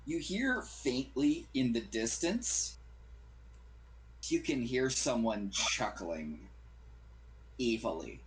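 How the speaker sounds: slow, hushed scene setting; ominous narration. A narrator's reading. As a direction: draw them in slowly. GM narrates a distant sound.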